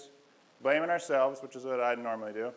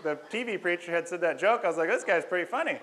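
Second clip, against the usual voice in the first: higher and louder, still chuckling at the joke; real amusement spilling into the words; bubbly laughing retelling; 6 semitones higher, 6 dB louder than usual. Real, not acted.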